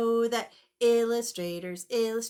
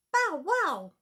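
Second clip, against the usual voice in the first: puppy bark; 5 semitones higher than usual. Acted. Dog voices in read-aloud.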